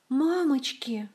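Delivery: breathless, whispered cry of fright; frightened gasp. A narrator's reading. Olga gasps in fright at the cobra. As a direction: gasp in shock.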